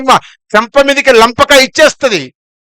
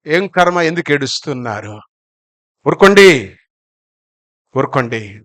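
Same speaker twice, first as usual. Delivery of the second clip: hushing mourners; 8 semitones lower, 5 dB quieter than usual. Acted. Acts risen Jesus hushing weeping women.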